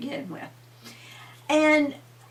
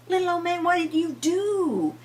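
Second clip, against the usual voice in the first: put-on old lady asking; 9 semitones higher than usual. A narrator's reading. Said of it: "She said".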